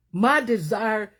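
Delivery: slow, choking up on the words; fighting back tears, stretching "My desire"; near tears. Real, not acted. Preacher to the church, near tears over her children. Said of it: "I'm about to cry".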